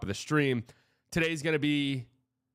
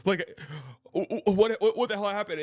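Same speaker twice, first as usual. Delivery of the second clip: hypothetical self reacting to shocking news, building panic; shocked disbelief; 4 semitones higher than usual. Reacting to imagined news of Luka, rising shocked panic. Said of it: "I would have been like".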